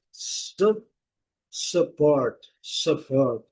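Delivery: English "support" with a short neutral vowel in "su"; schwa sound. Shown as a demonstration. Teacher showing students the schwa in "support", English pronunciation. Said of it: "Qual que é o som do schwa?".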